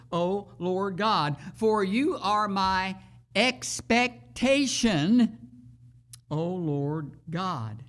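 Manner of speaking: slow, earnest psalm reading; scripture reading. Acted. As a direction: plead with God through the words.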